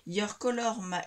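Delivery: English words in a strong French accent. Real, not acted. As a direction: read out English sayings with your French accent. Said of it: "Avec mon accent, vous adorez". (accent français en anglais)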